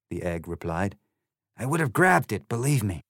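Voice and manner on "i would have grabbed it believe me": Trumpty Dumpty. Acted.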